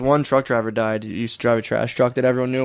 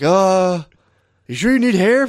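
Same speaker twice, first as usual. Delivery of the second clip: high, raised mock holler; imitated screaming; 5 semitones higher, 4 dB louder than usual. Landlord calling down to the movers, mock screaming. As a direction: project it like a rooftop call. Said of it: "He just screamed it".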